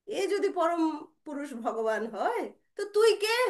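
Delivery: challenging retort. Acted. Mother challenges the boy.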